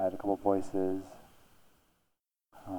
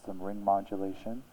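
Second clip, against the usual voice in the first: layered effects. Shown as a demonstration. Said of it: "mix it in with some high depth reverb".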